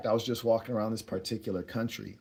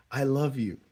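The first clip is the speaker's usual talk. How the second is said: slightly higher, lightly voiced woman; a hint of her voice, pitched up a little; imitated woman; 4 semitones higher than usual. Woman at parting to a new acquaintance, lightly imitated.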